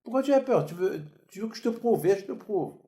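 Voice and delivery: retold challenge. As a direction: push him hard, daring him to flinch. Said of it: "J'ai dit". (défi moqueur, plus fort et rapide)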